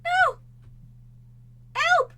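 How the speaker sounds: high frantic cries for help; frantic calls for help; panicked cries. Real, not acted. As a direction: scream for help in earnest. Cat under attack in game.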